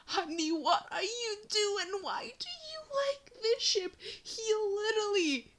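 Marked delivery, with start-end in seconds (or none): 0.1-3.9 exasperated plea. Acted. Pleading with fans of ship.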